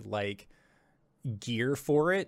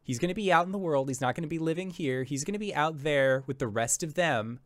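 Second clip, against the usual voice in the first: raised pitch, quickening protest; insistent brother; 4 semitones higher than usual. Acted. Brother cutting in on mom about Caleb, insistent. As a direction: argue your brother's case in a rush. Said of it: "your brother says".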